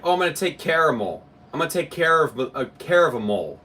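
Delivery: "caramel" sounding like "care of a mole"; mocking pronunciation. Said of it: "It sounds like you're saying".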